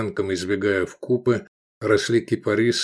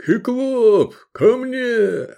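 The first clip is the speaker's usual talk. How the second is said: high, loud summoning shout; yelling master; 14 semitones higher, 4 dB louder, much slower than usual. A narrator's reading. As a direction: call the giant in to you. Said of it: "заорал".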